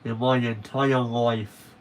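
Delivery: slow Australian accent, pitched a little down; lazy Australian lilt on "entire life". Real, not acted. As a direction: draw it out with Aussie vowels. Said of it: "I'm saying that in an Australian accent".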